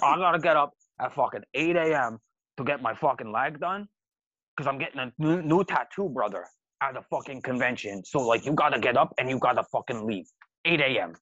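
lightly voiced insane-sounding drunk; imitated drunk host. Drunk host ordering guests out by morning, mock slurring. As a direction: mimic a rambling drunk host laying down orders. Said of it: "His voice is just insane".

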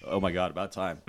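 low, soft, lightly voiced cartoon dog; a hint of a deadpan cartoon dog; Brian Griffin. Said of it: "I can probably do Brian Griffin".

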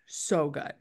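breathy whispered so good. Pretend. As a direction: whisper it like a secret. Savoring snack, whispered repeat.

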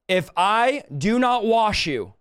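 slow, with "not" leaned on; a deliberate slow highlight on "not"; stress on not. Shown as a demonstration. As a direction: spell out "If I do not wash you" slowly, landing hard on "not". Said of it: "let me highlight this".

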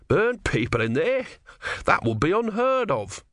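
mock-shocked denial. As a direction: protest as if the idea is unthinkable. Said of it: "said Brother triumphantly".

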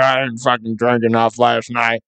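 lightly mumbled coworker voice; hint of a slurry drinker; mild imitation of a hungover coworker; imitating Chuck. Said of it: "he's like".

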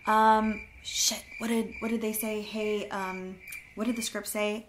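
a hint of nervous fumbling; mock flustered. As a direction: play someone who forgot the script, mildly panicked. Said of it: "you're sitting there and you're like".

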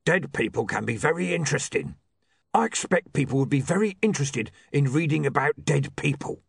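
put-on undead character voice; emphatic zombie, pitched a little up; insistent zombie Mister Bendy. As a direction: press the point as a zombie.

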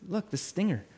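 softly voiced calm dad; gentle, unhurried reassurance; reassuring father. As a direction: quietly soothe a frightened child. Father reassures his panicked son in story.

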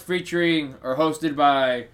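words pushed out through a burp; slow, talking through a burp. Real, not acted. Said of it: "Sorry, I had a burp".

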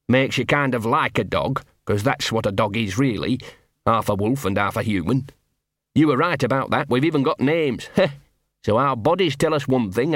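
lightly voiced scruffy street dog, chummy; a small mongrel wheedling a friend; Gaspode the dog. Scruffy dog to hidden wolf, lightly voiced.

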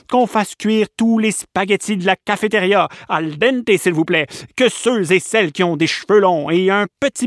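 a hint of a booming camp boss; commanding camp director. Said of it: "et dit".

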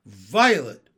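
loud calling order; big sister calling out an order. A narrator's reading. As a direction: call her name firmly across the camp. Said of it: "ordered Jessie".

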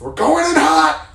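high, loud, drawn-out yell; slow, high mock war cry; hammed-up battle cry. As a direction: holler it like charging in. Acting out storming into Kroger.

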